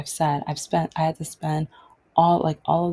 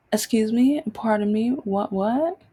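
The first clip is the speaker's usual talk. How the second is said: indignant; 5 semitones higher than usual. Retold or imitated. Her indignant reaction.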